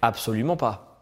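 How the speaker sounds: flat, clipped robotic answers. Real, not acted. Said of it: "Pourquoi tu parles comme un robot".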